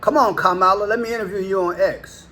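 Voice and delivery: light imitation of a cheery offer; mock Musk invitation. Vlogger mimics Musk inviting Kamala Harris, lightly voiced. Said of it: "Musk made an offer".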